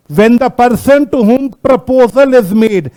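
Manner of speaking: very slow, word-by-word reading; measured dictation pace. Shown as a demonstration. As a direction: spell out the legal wording slowly for students. Reading the law's wording to class.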